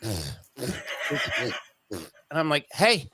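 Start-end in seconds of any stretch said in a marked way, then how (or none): 2.7-3.1 high, laughing question about the hair; laughing tease. Retold or imitated. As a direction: poke fun at dad's ponytail. Teasing dad about ponytail.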